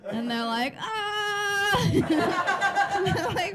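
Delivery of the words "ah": high-pitched "ah!" of mock reaction; acted reaction cry. Two movie guys react to the typist, mock outcry.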